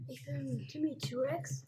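slow shy whisper; barely whispered introduction. Real, not acted. Shy child introduces his costume. (leises Flüstern)

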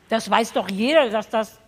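talking with a mouth full of cereal; eating cereal. Real, not acted. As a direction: speak through a mouthful. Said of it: "dass ich mit vollem Mund spreche". (mit vollem Mund sprechend)

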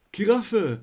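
high, loud guessing; hyped game show caller. Retold or imitated. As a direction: shout it out like a frantic caller. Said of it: "Und alle so". (aufgedrehter Anrufer)

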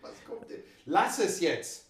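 hushed, slow whisper to his co-host. Real, not acted. Whispering to his co-host to drop the story. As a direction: breathe it so the mic barely catches it. Co-host hushing him off mic.

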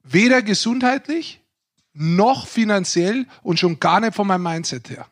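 slow, deliberate and earnest; dead serious. Real, not acted. Guest insists to the hosts he means it, slow and dead serious. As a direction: spell it out slowly so they know you mean it. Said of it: "Oh, jetzt wird er ganz ernst".

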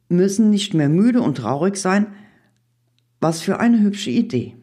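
gladly welcoming the idea; delighted. A narrator's reading. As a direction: lift the pitch with pleasure. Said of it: "freute sich der Mai".

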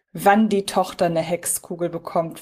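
ordinary talk

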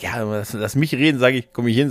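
ordinary talk, nothing marked

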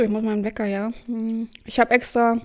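ordinary delivery

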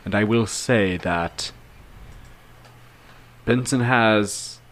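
lightly voiced character confiding his past with deliberate pauses; halting, thoughtful in-character recollection; measured storyteller. Player voices Adelar's confiding speech.

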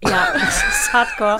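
very high burst of laughter, loud; laughing shout. Real, not acted. Laughing shout at the silly kiss spell. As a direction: crack up and squeal it out.

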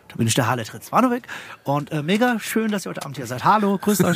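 lightly mock polite TV host; German TV comedian. Comedian parodying his polite German television persona. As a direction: play the square TV entertainer greeting the crowd. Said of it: "mein deutsches Fernsehmaterial".

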